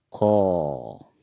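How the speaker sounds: खो said with a rounded o vowel, Assamese style; खो as Assamese kho, not Hindi kha; Assamese letter kho. Shown as a demonstration. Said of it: "इस ख को हम असमिया में पढ़ेंगे". (असमिया उच्चारण में खो)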